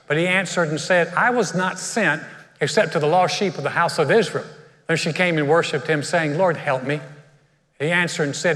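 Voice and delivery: measured, solemn Bible reading; scripture reading. Acted. Preacher reading scripture to the church, measured and solemn. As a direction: read the passage out to the congregation. Reads the Bible passage aloud.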